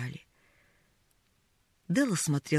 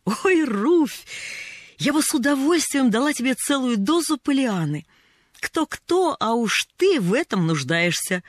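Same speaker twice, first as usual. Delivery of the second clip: higher, amused and bright with sudden fun; amused outburst; 7 semitones higher, 4 dB louder than usual. A narrator's reading. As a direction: break into amused teasing, higher and louder. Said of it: "но вдруг неожиданно рассмеялась".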